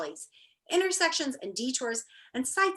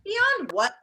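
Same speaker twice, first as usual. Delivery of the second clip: high, sharp puzzled question; 9 semitones higher, 5 dB louder than usual. Acted. Milo baffled by the note, high surprised question. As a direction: ask it with real bafflement. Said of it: "thought Milo".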